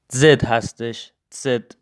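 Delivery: زد begun with a ts sound, "tset"; German letter Z. Shown as a demonstration. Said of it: "این تلفظها خیلی مهم هست".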